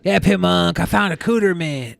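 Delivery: lightly voiced impersonation; a slight put-on voice, little changed; Shabisky. Co-host redoes his impression of the guest, lightly voiced. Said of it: "That's how I do an impersonation".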